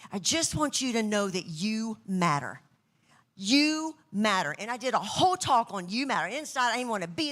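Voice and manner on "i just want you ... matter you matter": slow, earnest reassurance; sincere speaker. Retold or imitated. Speaker retelling her talk, slow and sincere. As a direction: tell them slowly they matter. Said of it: "I speak on You Matter".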